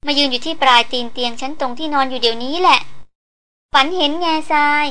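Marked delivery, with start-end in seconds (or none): none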